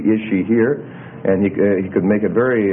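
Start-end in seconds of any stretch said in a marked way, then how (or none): 0.1-0.8 "is she here?" with a clear rise on "here"; doubly emphatic question. Shown as a demonstration. Teacher shows intonation plus word order, emphatic question rising on "here". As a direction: make it unmistakably a question, lifting "here". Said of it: "using both intonation and word order change".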